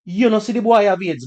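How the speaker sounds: high-pitched mock of a father tearing up; imitated tearful dad. Dad fearing his son is ill, imitated tearful voice. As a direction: imitate a dad voicing his fear through tears. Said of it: "he's tearing up and he's like".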